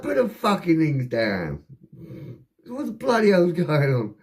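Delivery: high, slowed command; acted-out incredulous copper; exasperated police order.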